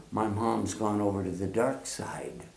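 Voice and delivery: hushed, unvoiced Star Wars gasp of betrayal; mock whisper. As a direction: whisper it like a shocked secret. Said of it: "I would have said".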